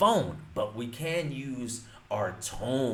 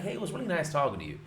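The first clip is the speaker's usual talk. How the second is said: fast friendly line; 4 semitones higher, much faster than usual. Shown as a demonstration. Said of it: "be like".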